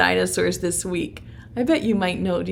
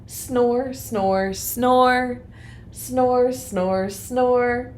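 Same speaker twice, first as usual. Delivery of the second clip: rhythmic snore, snore chant; sleepy snoring chant; 3 semitones higher, much slower than usual. Shown as a demonstration.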